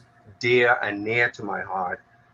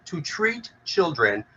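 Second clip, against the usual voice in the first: "treat" picked out, raised in pitch; stress on treat; 4 semitones higher, slower than usual. Real, not acted. Advocate repeating her keyword to the audience, stress on "treat". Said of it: "keyword is treat".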